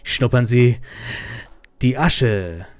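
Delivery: very slow mock dubbed line; G-Man in German. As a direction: draw out the German words in a bad dub impression. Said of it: "then he's like".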